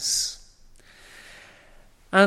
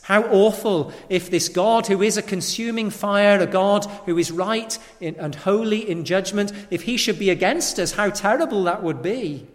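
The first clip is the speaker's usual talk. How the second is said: rising alarm; 3 semitones higher, 4 dB louder than usual. Real, not acted. Preacher builds dread.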